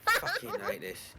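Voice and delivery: high, slow complaining whine; a real high, drawn-out whine; exasperated groan. Real, not acted. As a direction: whine it like it pains you. Groaning at posh roleplay.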